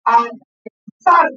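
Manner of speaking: "Analizar" drawn out slowly; teacher modeling "Analizar" at half speed; slow syllable demo. Shown as a demonstration. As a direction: say "Analizar" slowly so the class hears each syllable. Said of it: "Escuchen toda la función".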